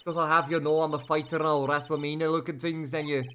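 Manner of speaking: loud, brash Southern woman; country woman. Acted. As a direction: talk big like a feisty country gal. Voicing a tough country woman.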